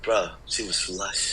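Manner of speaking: lightly put-on Geordie accent, slow and soft; a hint of Newcastle slang, drawn out. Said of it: "they say".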